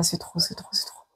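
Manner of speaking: whispered, overwhelmed repeat. Real, not acted. Overwhelmed by the energy she senses, whispering. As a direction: let it fall into a whisper.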